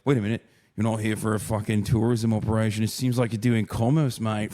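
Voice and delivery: a lightly put-on British accent, fast; quick half-joking British accent as a suspicious official. Customs officer grilling a streamer, light British accent. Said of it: "now I'm British".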